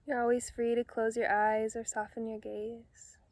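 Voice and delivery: calm meditation guide with long pauses between phrases; unhurried, soothing instructions, phrase by phrase; guided meditation. Real, not acted. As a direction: gently lead them into relaxation, leaving space to breathe.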